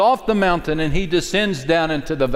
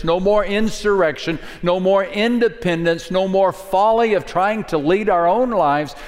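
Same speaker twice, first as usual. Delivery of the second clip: fervent preaching; 6 semitones higher than usual. Real, not acted. Preaching at full force.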